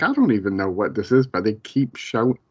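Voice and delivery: talking through hiccups; words broken by hiccups. Real, not acted. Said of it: "Sorry, I got the hiccups".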